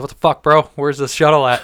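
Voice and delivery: half-joking outraged outburst; mock irate. Retold irate text to Bill.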